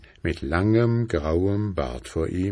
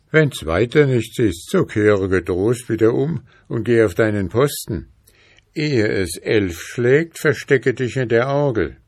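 put-on higher, louder gentle old man; kindly old man voice; 5 semitones higher, 4 dB louder than usual. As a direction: advise him kindly. Old man advises soldier.

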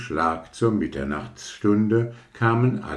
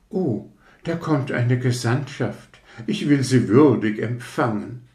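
higher, self-important rocket voice; pompous rocket; 5 semitones higher than usual. Acted. Rocket mistakes workers for envoys, pompous. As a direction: greet the workers as an embassy.

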